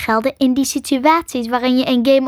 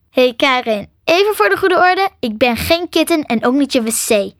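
indignant, louder and higher; angry; 3 semitones higher, 3 dB louder than usual. Acted. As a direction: set the record straight, annoyed. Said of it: "zei Nick boos". (boos en verontwaardigd)

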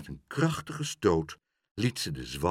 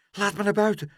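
high little creature voice; small, high, urgent bird character; pleading dove; 11 semitones higher, 4 dB louder, faster than usual. A narrator's reading. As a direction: plead to be let out. Hidden dove begs to get out.

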